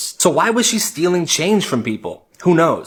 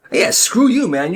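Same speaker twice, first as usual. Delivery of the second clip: defiant repeat; 4 semitones higher than usual. Acted. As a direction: say it back harder to his face. Kid repeats insult louder.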